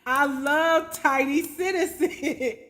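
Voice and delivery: drawn-out, laughing delight; amused laughing. Real, not acted. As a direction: laugh through the words, taking it slowly. Amused by the insult name.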